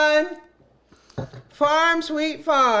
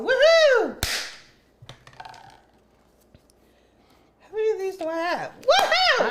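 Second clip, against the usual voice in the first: cheering; 8 semitones higher than usual. Real, not acted.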